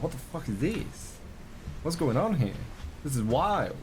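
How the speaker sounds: slow, light imitation of a British accent; mock British accent. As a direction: play a bemused Brit in a British accent. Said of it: "A British person would be like".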